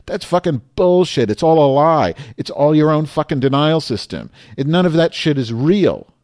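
heated, emphatic outburst; angry rant. Real, not acted. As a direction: hammer each denunciation. Angry rant at war-supporting churchgoers.

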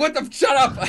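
high, laughing mock outrage; group snaps shut up through laughter. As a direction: laugh it off at him. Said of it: "Everybody's just like".

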